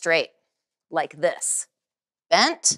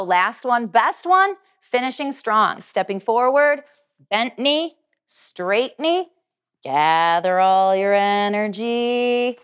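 put-on kids show host; slower than usual. Instructor pumping up students.

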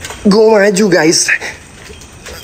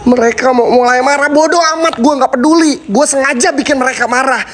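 higher, keyed-up defiance; taunting spirits; 6 semitones higher than usual. Real, not acted. Vlogger provoking the spirits, worked up and defiant. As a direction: dare the ghosts to come.

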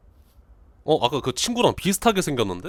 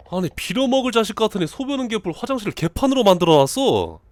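lightly voiced angry housemate; 6 semitones higher than usual. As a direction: play an exasperated game character ranting. Voices angry game character.

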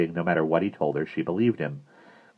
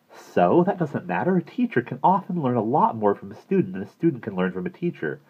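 a hint of a raised, patient woman's voice; lightly voiced counselor; 6 semitones higher than usual. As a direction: gently coax the boy. Carla explains to Bradley.

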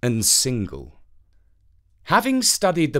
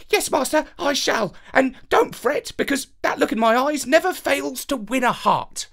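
very high, sweet little dog voice; a small eager dog reassuring its master; 12 semitones higher than usual. Acted. Dog Cabriole promises Avenant to plead with its eyes, high sweet voice.

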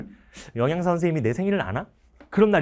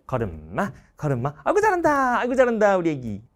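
doting parent. Retold or imitated. Cheering a toddler's steps.

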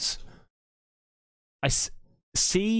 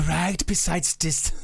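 slow, lower mock echo; mimicking the investigator; 5 semitones lower, slower than usual. Echoing the Swedish ghost hunter's line, teasing imitation. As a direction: parrot it slowly with amusement.

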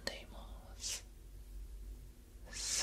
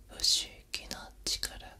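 usual speaking voice

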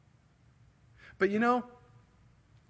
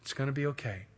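tender and understated; loving, compassionate; faster than usual. Acted. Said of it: "one of love and compassion".

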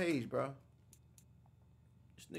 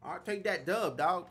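loud gloating; 2 semitones higher, 6 dB louder than usual. Real, not acted. Cheering his team's score.

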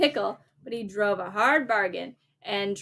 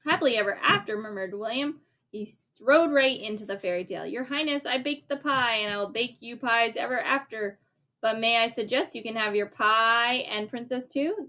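lively bedtime story reading; reading to a child. A narrator's reading. A parent reads the story aloud to a child, lively. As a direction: read it like a picture book at bedtime.

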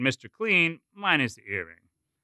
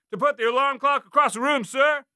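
cadet answering; 13 semitones higher, 4 dB louder than usual. A narrator's reading. Cadet answering drill sergeant.

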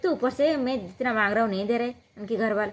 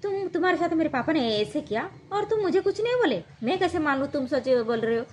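higher, accusing voice of a mocking husband; half-acted furious husband scoffing at her innocence; angry accusation; 5 semitones higher than usual. Husband accuses his wife of hiding the truth, in a mocking, angry, higher voice.

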